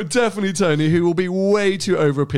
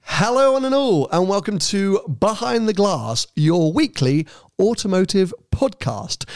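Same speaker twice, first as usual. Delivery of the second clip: bright, higher announcer intro; podcast intro voice; 3 semitones higher than usual. Shown as a demonstration. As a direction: open the show like a radio host. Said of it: "I want to try a new intro".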